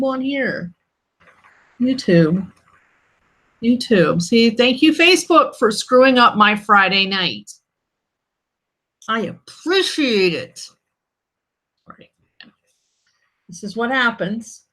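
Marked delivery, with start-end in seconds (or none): 4.2-10.7 sarcastic thanks. Real, not acted.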